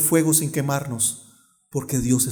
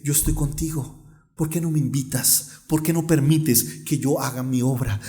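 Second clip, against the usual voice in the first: tender divine appeal. Retold or imitated. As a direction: voice God gently inviting the listener. God's tender appeal, voiced by preacher. (súplica tierna, grave y suave)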